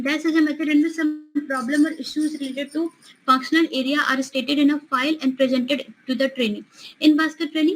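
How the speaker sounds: slow, deliberate exam-question reading; reading a question aloud. Acted. Teacher reading a quiz question to students, slow and deliberate. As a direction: read it out word by word for the class.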